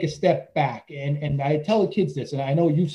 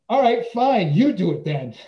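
louder and higher, fed up; girl tells coach to do it himself, exasperated; exasperated retort; 4 semitones higher, 5 dB louder than usual. Retold or imitated. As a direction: snap back like a fed-up teen handing over the job.

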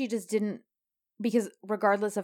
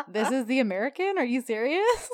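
incredulous; 4 semitones higher than usual. Retold or imitated. Mocking reaction to the fake American.

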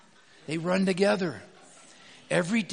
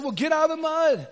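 firm reply; 8 semitones higher, 4 dB louder than usual. Retold or imitated. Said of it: "I said".

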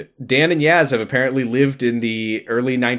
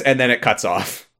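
ordinary delivery

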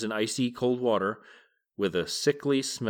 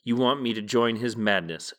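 mild shout. Acted. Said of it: "shouted Chernobog".

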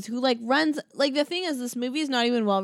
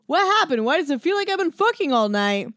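loud, high mock yelling; raised-voice impression of a man yelling; retold yell; 6 semitones higher, 4 dB louder than usual. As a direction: imitate him yelling at her in confusion. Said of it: "and he yells to her".

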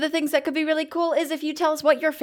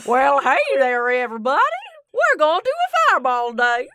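chirpy spellbook host; 2 semitones higher than usual. Pretend. Friends mock their spellbook as a cheerful presenter, lightly voiced. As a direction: welcome everyone like a bubbly show host. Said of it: "Angel's gonna sound like this".

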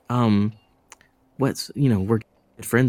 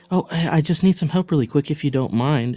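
put-on sweet girl voice; 6 semitones higher than usual. Disguised woman asks for help.

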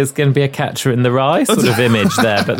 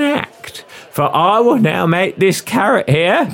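higher Cockney stage patter; Cockney magician's assistant announcing the trick; Cockney showwoman; 4 semitones higher than usual. Acted. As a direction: work the crowd like a music-hall Cockney. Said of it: "young female Cockney accent".

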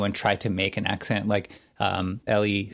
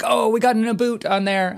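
high, loud teasing cry; mock gleeful pounce; 12 semitones higher, 5 dB louder than usual. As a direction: imitate hosts pouncing on an accent slip. Retold hosts pouncing on an accent.

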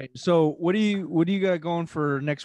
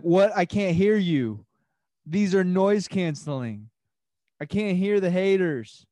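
cocky and loud over headphones; pretending not to hear; 3 semitones higher, 5 dB louder than usual. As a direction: brag like you can't hear anyone. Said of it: "I'm gonna be like".

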